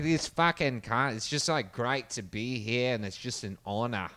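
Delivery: lightly put-on Australian accent, slowing; mock Australian accent. Mocking the actor in interview: mild Australian accent. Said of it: "horrible Australian accent".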